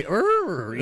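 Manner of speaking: short imitated horse sound, rolled out; mock horse noise. Friend denying he had to neigh, mock horse noise. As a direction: fake a horse noise dismissively. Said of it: "I didn't have to make any".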